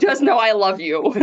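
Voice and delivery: loud, slow mocking repeat; drawn-out, playful parody of tender words; mock echo. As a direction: echo it back with exaggerated feeling. Repeats daughter's words in mock protest.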